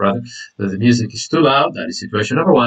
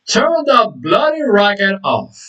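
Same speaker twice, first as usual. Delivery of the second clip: irritated demand, drawn out and higher; mock annoyed demand, slow and raised; mild annoyance; 5 semitones higher, slower than usual. Shown as a demonstration. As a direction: act out a fed-up order to cut the noise. Acted informal demand about loud music.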